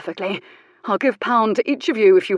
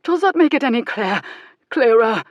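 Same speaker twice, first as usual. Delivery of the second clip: pained through the bite; 4 semitones higher, 4 dB louder than usual. Acted. Jules speaking through pain.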